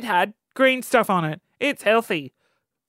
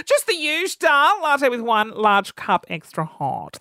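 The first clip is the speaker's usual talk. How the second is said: mock fussy order. Customer reminding Jenny of the order, mock-chirpy. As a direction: rattle off the order like a regular.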